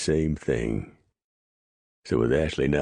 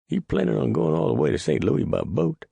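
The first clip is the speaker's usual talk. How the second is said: incredulous. Acted. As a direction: balk at the idea. Clyde incredulous.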